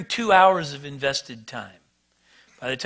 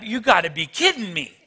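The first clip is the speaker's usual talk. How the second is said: much higher, louder incredulous rant; losing it; 8 semitones higher, 4 dB louder than usual. Retold or imitated. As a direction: rant at the clerk who hung up. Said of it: "I am losing it by now".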